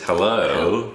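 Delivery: low, rising Australian hello; imitated Australian hello. Learner copying the teacher's Australian voice, imitated accent. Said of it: "say hello in your voice".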